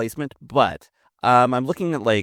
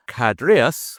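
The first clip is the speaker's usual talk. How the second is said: Cadreus read in a mock Scottish accent; 4 dB louder than usual. Shown as a demonstration. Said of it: "in a Scottish accent, I'd prefer".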